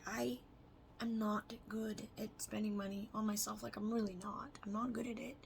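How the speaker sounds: whisper. Real, not acted. Confessing about spending.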